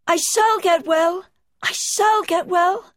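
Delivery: high, loud and slow, ringing with joy; joyful cry. A narrator's reading. Colin inside the secret garden, crying out in slow joy. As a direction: cry it out in triumph, drawn out. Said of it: "he cried out".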